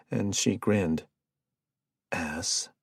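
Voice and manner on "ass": soft muttered insult under the breath. Acted. Jared mutters at Stewart, a soft muttered insult. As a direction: mutter it, half to yourself. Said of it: "Jared muttered".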